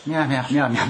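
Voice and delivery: imitating an embarrassed, unenthusiastic crowd doing Nagoya meows; shy, half-hearted mimicry. Host imitating audience too shy for Nagoya talk, half-hearted. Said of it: "みんな恥ずかしそうに".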